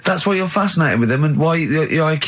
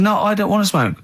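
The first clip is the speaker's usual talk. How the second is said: higher-pitched protest, not yet shouted; retold protest; 6 semitones higher than usual. Diner answering the waitress's question, insistent but unshouted. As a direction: recount an insistent refusal at normal volume.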